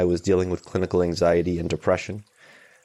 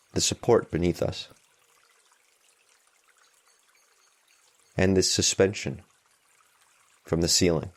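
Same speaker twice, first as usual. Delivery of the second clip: calm, even meditation guide with long pauses; unhurried guidance, leaving room between phrases; guided meditation. Real, not acted. Meditation teacher easing listeners into noticing tension and support, calm guided meditation.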